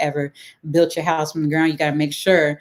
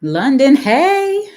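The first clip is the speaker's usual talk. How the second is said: real delighted high, loud squeal; excited greeting; 10 semitones higher, 9 dB louder, much slower than usual. Real, not acted. Host greets a viewer tuning in from London, excited. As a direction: squeal hello at a much higher pitch.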